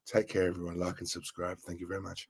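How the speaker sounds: soft, low, breathy radio voice; sexy radio voice. Shown as a demonstration. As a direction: purr it like a late-night DJ. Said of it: "quite a sexy voice".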